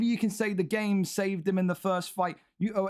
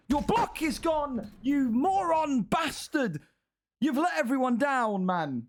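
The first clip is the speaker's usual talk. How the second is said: higher and drawn out, berating the loser; exasperated slow scolding; 6 semitones higher, slower than usual. Real, not acted. Commentator scolding the fighter who lost, exasperated. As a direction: spell out his failure slowly in disbelief.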